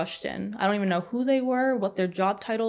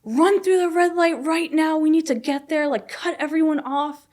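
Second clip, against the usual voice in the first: high, raised urgent yell; loud, high-pitched frantic command, acted out; retold scream; 8 semitones higher, 4 dB louder than usual. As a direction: re-enact screaming orders at the driver. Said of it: "I screamed at my father-in-law".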